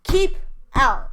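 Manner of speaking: loud high "Keep out"; sign's command. A narrator's reading. The sign warning the children off, loud and high. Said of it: "a sign that said".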